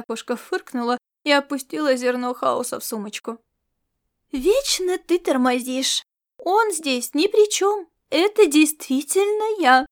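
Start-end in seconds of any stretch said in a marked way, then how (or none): 4.3-9.9 put-on higher, slower, teasing girl's voice; delighted smug teasing; smug, pleased. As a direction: gloat over the surprise, drawn out. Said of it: "страшно довольная произведённым эффектом".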